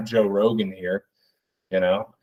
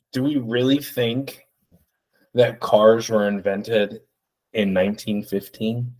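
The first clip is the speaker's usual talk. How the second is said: fake deep podcaster. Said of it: "he'll do some other shit like".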